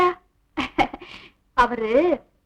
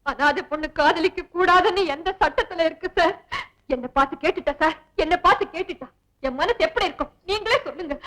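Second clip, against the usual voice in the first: fake tearful complaint. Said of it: "பிரமாதண்டி உன் நடிப்பு".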